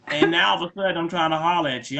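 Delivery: usual speaking voice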